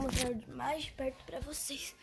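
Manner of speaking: whispering. Real, not acted. Whispering slime vlog aside.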